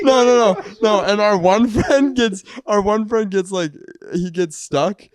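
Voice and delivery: loud, high, laughing protest; excited. Real, not acted. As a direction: cut them off excitedly.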